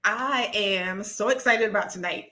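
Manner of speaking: excited, drawn-out hello to everyone. Real, not acted. Host greeting live stream viewers, excited. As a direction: open the show with real, eager excitement. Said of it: "if you can't tell".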